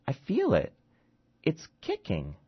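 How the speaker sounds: high, insistent woman's voice; insist, half-dazed, that it moves; emphatic drugged mother. Acted. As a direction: Maya pressing the doctor, high and insistent.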